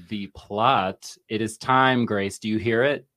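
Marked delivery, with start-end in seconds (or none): 2.4-3.1 teapot impression. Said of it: "I did a teapot impression".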